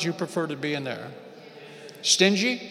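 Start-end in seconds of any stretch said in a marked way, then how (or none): 2.0-2.6 mock question. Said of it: "maybe it should say stingily".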